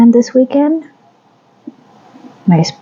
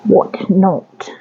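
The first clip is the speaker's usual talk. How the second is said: whisper. Real, not acted. Echoing own phrase in whisper.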